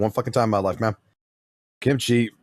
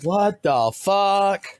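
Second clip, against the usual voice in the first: retold disbelief; 7 semitones higher, much slower than usual. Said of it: "I'm like".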